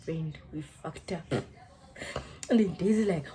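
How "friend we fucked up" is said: low, hushed realisation; soft, low mock dismay; retold dismay. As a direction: say it quietly, with sinking dread. Acting out sinking realisation to friend.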